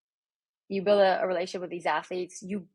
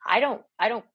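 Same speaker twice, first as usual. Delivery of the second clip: louder, firm telling-off to a player; firm retort; 7 dB louder than usual. Retold or imitated. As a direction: put your foot down with her. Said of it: "And I was like".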